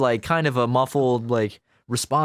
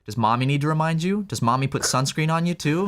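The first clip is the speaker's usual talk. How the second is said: mock-condescending dentist, slightly raised pitch; 3 semitones higher than usual. Dentist asks grown patient about flossing, condescending. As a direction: talk down as if to a small child. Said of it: "he was kinda condescending to me".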